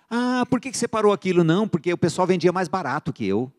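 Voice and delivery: high-pitched imitation of a complainer; mock excuse-maker. Someone explaining why they quit the business, mock complaining. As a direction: make a lame excuse, pitched well up.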